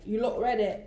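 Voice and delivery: put-on a light British accent again. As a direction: mimic the singer in a British accent. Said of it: "I'm giving you my best British accent".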